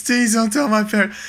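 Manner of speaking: put-on high, pleading child voice; imitated frightened kid. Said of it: "put the fear of God in him".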